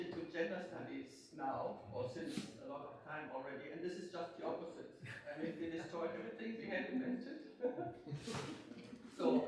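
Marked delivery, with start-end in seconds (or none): 3.7-7.4 laughing. Real, not acted. Joking about her own field. 7.4-9.1 soft breathy laugh. Real, not acted. Laughs after her joke.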